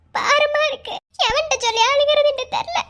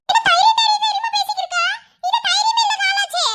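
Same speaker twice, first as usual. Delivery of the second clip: higher, crying, choked reproach; tearful scolding; 4 semitones higher than usual. Acted. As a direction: scold him while about to cry. அழுதுகொண்டே திட்டுகிறாள். (அழுகையுடன் கடிந்துகொள்ளும் குரல்)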